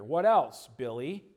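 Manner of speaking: ordinary delivery, nothing marked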